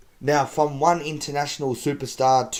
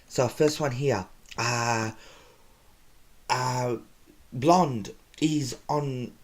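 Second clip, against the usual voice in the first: much higher, goofy put-on comic voice; Dumfing character voice; 4 semitones higher than usual. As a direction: play a self-proclaimed comedian who is not funny. Dumfing tells jokes while Leon's away.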